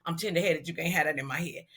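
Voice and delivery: low, soft imitation; Prince. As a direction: drop low and quiet for his demand. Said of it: "Prince stuck his head in the door".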